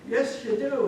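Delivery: loud arguing. Acted. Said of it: "they started getting loud".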